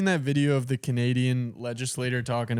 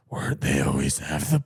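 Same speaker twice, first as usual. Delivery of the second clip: Canadian Batman. Retold or imitated. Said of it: "he's Batman Canada".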